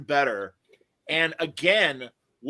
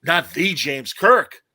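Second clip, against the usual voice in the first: slow, louder, mock awe; awed Klingons; 3 semitones higher, 7 dB louder, slower than usual. Klingons realizing they face Kirk, hammed-up shock. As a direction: gasp it out in hammed-up dread. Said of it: "the Klingons going".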